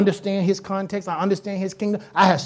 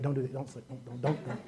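the Lord warning; 10 semitones lower, 17 dB quieter than usual. Retold or imitated. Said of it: "he like".

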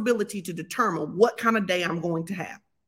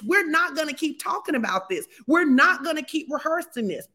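firm self-talk; 6 semitones higher than usual. Shown as a demonstration. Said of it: "talk to yourself like this".

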